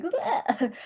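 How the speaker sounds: mock gagging bleh, pitched high and thin; disgusted bleh. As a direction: imitate a man's grossed-out blurt. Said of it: "He was like".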